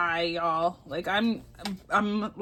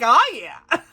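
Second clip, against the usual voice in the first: donkey's voice; 4 semitones higher, 7 dB louder than usual. Acted. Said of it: "He's like".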